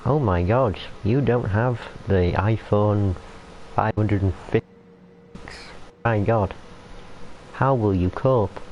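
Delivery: mild put-on American accent, mock horror; understated American accent, faked dismay. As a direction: tease in a light American accent, as if it's a tragedy. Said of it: "using an American accent".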